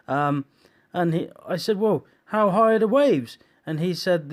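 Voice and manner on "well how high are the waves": high, loud anxious question; panicked question. Retold or imitated. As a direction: ask it in alarm. Panicked question about waves.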